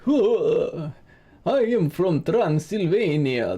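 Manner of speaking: mock vampire Transylvanian accent, slow and swooping; hammed-up pop-culture Transylvanian accent with a breathy "huh"; finto accento transilvano. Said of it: "no one talks like that in Transylvania".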